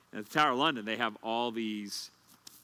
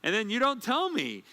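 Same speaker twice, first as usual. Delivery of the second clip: imitating upset wife; 4 semitones higher than usual. Wife scolding husband for the false alarm, mock scolding. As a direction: scold him like the rattled wife. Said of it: "She goes".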